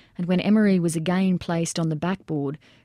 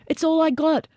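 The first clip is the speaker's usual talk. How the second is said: very high, loud shout back; yelled back; 10 semitones higher, 3 dB louder than usual. A narrator's reading. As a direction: shout the bad news across. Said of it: "Boland yelled back".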